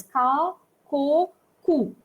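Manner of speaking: "ka, ko, ku" each with a hard K; hard c demo. Shown as a demonstration. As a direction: spell out ka, ko, ku with a clipped K sound. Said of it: "you are getting the K sound".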